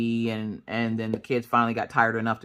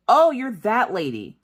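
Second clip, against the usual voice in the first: imitating the cop; 8 semitones higher, 3 dB louder, slower than usual. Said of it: "And she goes".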